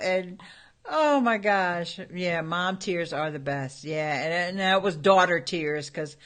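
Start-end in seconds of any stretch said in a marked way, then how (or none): none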